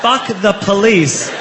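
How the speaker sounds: mock shout at the cop; retold yell.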